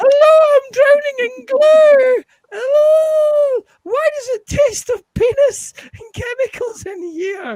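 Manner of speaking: squeaky terrified puppet voice, very high pitch. Voicing a latex puppet someone asked to hear speak, terrified puppet voice. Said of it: "Make it speak again".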